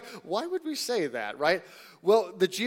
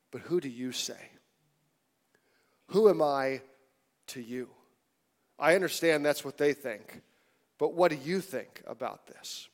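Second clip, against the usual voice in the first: gentle intimate question; 3 semitones lower, 3 dB quieter than usual. Acted. Jesus voiced, hand on shoulder.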